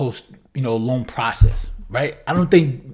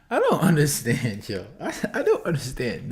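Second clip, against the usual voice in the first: chuckling, softer, can't believe it; laughing disbelief; 5 dB quieter than usual. Real, not acted. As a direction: laugh through the words in real disbelief. Host reacting to crying clip.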